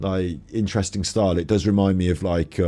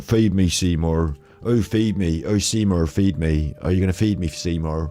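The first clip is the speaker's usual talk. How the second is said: put-on Cornish and Bristol accent. Imitating how Alan says the line: Cornish Bristol accent impression of Alan. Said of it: "Alan's more Cornish, isn't he? He's more like Southern, sort of Cornwall and that, in a Bristol".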